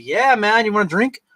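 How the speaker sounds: acted-out upbeat invite; eager invitation. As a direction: play up an eager drinking buddy. Acts out himself offering a drink.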